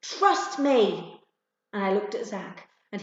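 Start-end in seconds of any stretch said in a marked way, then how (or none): 0.0-1.2 higher, louder firm call; firm yell. Acted. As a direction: insist over the noise. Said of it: "Jody yelled".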